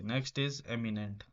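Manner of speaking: very slow, each word drawn out; slow dictation. Shown as a demonstration. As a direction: spell it out slowly for the class. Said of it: "teacher reads word slowly". (शब्द को धीरे-धीरे खींचकर पढ़ना)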